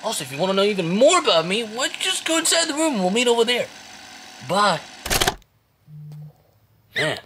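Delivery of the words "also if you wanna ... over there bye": lightly voiced chirpy bunny greeting; sing-song host, a hint of a cartoon bunny; cheerful bunny mascot. Bunny greets visitors from the recording, light cheerful mascot voice. Hopscotch's second recorded message.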